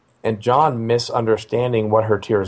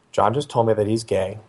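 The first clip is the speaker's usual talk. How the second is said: understated, even delivery in usual pitch; matter-of-fact. Retold or imitated. Wife telling the father their son's news, matter-of-fact. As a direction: report it plainly, without fuss. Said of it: "she told me, matter of fact".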